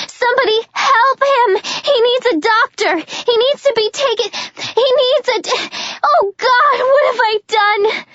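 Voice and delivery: high frantic pleading; beg, spiralling into panic; hysterical. Acted. Juliet frantic over Jenkins' body, hysterical.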